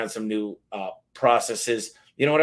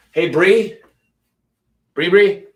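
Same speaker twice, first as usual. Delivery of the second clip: loud, high call across the room; sudden loud call to someone nearby; 8 semitones higher, 11 dB louder, slower than usual. Real, not acted. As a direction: call her name to get her attention. Calling out to someone off-mic.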